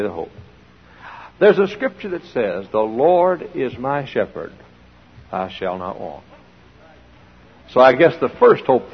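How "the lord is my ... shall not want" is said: quiet reading. Acted. Preacher quotes psalm softly.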